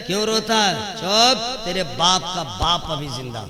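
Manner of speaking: loud, high mock scolding; blustering grandfather. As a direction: boom at the crying grandson. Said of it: "اگر پوتا روتا ہے تو دادا کہتا ہے".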